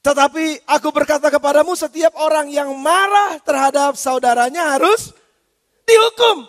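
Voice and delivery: slow, loud, rising proclamation; proclaimed scripture. Shown as a demonstration. Pastor reading the verse aloud to his congregation, slow and booming. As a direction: thunder the verse out slowly, building to a loud final word. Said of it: "Saudara nggak bisa, nggak berani ngomong kayaknya".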